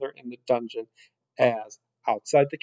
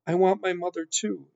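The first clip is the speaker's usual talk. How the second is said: gentle, higher-pitched confession; said softly; 6 semitones higher than usual. A narrator's reading. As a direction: share it tenderly, pitched a little high. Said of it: "said the princess softly".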